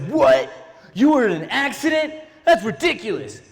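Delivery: imitating an angry dad, mildly outraged; mock furious dad. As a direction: do dad's indignant disbelief, half in jest. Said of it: "He was furious".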